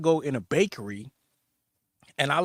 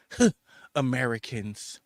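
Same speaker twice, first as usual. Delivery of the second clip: imitated nose-in-the-air scoff; lightly voiced disdain for tourists; mock snooty disdain. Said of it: "turned their noses up at us".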